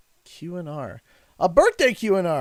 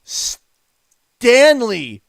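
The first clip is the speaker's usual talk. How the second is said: excited shout; 2 semitones higher, 8 dB louder than usual. Real, not acted. Shocked by big donation.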